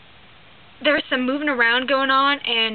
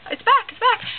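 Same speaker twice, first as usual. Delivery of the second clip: much higher and louder, thrilled cry; excited lady; 11 semitones higher, 6 dB louder than usual. Retold or imitated. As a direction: squeal it like the dog came home. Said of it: "that's my impersonation".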